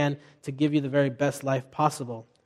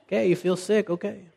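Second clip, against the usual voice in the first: loving and kind; 4 semitones higher than usual. Retold or imitated. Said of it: "I'm loving and kind".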